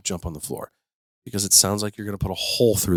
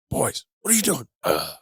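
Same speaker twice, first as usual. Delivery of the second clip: high-pitched, fed-up parent; exasperated outburst; 5 semitones higher than usual. Retold or imitated. Mom losing it at her roughhousing boys, retold exasperation. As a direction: scold the boys, voice shooting up, ending in a groan. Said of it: "before, I would lose my shit".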